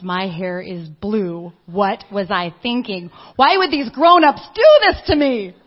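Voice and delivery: put-on a girl suddenly horrified at her blue hair; panicked girl. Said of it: "she all of a sudden realized".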